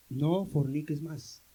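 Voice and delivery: almost hushed, lingering on each word like a gentle command; tender admonition. Acted. Christus mahnt den Reuigen.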